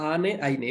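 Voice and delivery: "আনে" as aa-ne, "আইনে" as ai-ne; pronunciation of the endings. Shown as a demonstration. Teacher recapping two dual endings, pronouncing "আনে" and "আইনে" distinctly. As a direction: contrast "আনে" with gliding "আইনে". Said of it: "উচ্চারণ পেলাম".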